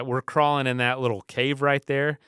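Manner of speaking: a hint of a frightened little boy, rising as he lists the fears; imitating panicky son. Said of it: "He's like".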